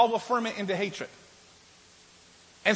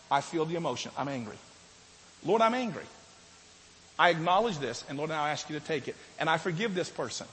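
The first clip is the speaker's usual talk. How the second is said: lower, softer confession to the Lord; quiet prayer; 6 semitones lower, 5 dB quieter than usual. Shown as a demonstration. Pastor models a prayer for the congregation, soft and low. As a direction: pray it quietly, owning the anger. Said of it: "We say something like this".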